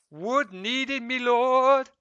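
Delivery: high, loud peasant voice calling up to the lord; game peasant quote. Retold or imitated. Quoting a game villager to his viewers, high and servile. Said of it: "get that reference".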